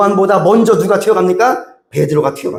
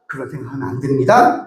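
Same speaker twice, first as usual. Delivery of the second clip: lower, firm and decisive; 5 semitones lower, 4 dB quieter than usual. Shown as a demonstration. Pastor firmly stopping talk of dying, firm. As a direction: shut the dark thought down flatly. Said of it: "단호하게 말을 해야 돼요".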